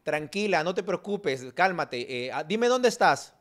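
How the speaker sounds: reassure, then issue orders with mock assurance; acted-out take-charge voice; very self-assured. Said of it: "Él, muy seguro".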